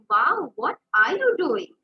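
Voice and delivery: slow, drawn-out delighted wow; happy surprised. Shown as a demonstration. Teacher praising a child's drawing, happy and surprised. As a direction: sound thrilled at the child's drawing. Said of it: "What if I'm happy and I'm surprised".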